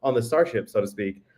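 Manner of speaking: echoey room sound; hallway echo. Real, not acted. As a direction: voice bouncing off bare walls. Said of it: "I am a bit echoey".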